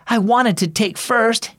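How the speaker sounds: panting after a race; out of breath. A narrator's reading. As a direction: talk between breaths. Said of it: "he said breathlessly".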